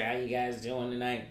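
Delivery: slow, lightly raspy imitation; weird raspy voice. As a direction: imitate her rasp, taking it slowly. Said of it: "some kind of weird raspy voice".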